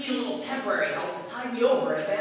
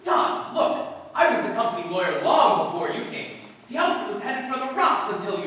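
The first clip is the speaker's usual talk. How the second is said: loud, incredulous protest; indignant outburst; 2 semitones higher, 3 dB louder than usual. Acted. Lawyer to his boss about the company, indignant raised voice. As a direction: push back hard on the company claim.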